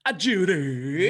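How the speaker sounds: slow, drawn-out call to another room; lightly voiced far-off call. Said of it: "'cause I used to say".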